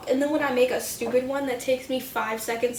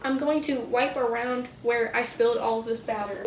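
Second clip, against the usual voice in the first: talking through hiccups; speech broken by small hiccups. Real, not acted. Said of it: "I have the hiccups".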